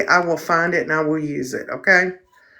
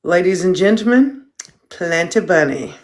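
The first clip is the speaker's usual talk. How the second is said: mock announcer. Introducing the dog again.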